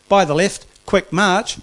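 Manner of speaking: shouted, drawn-out drill call; drawn out parade commands. Retold or imitated. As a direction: bark it like a sergeant on parade.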